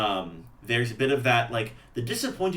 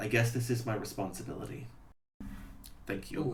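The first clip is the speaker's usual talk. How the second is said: hushed, heavy-hearted, sad whispered murmur; 8 dB quieter than usual. Voicing Percy accepting a duty: heavy sadness in character. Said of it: "with this, like, weight of sadness in him".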